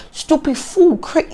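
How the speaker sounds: high, sharp mock insult; imitating an insult, pitched high. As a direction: toss off the insult the way he did. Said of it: "he's literally insulting you".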